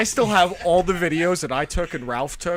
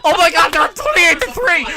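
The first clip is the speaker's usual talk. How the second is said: higher, mock-gleeful gloating; mock excited fan; 8 semitones higher, 5 dB louder than usual. Retelling a friend's early Super Bowl cheer, mock excited. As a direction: lightly imitate a cocky celebrating fan. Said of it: "I say".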